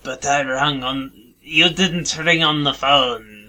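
a light mock French accent, phone caller. Prank caller on a podcast, in a light mock French accent. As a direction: play a French caller faking a radio call-in, light French accent. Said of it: "it's a French accent".

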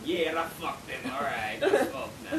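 Russian woman. Retold or imitated. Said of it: "That had that tone".

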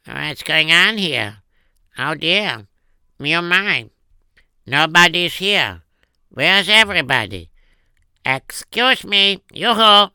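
lightly voiced old man looking for someone; old father calling out. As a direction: call out across an empty market. Old father in empty town.

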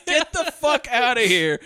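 high, slow mock outburst; hammed-up cop throwing her out; mock angry dismissal. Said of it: "He says".

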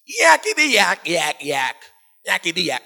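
funny demon noises. Retold or imitated. Demon interrupting Jesus as he talks, funny chattering noises. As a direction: imitate a demon's silly jabbering. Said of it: "make funny noises".

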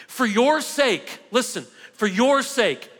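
slow and weighty, leaning hard on "your"; an earnest plea, "For your sake" drawn out and stressed on "your"; emphatic. Real, not acted. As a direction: press every word of "For your sake", stretching "your". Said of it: "I'm gonna say it extremely emphatically".

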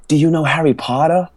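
put-on a kid's wide-eyed, high question; eager kid. Imitates curious kids.

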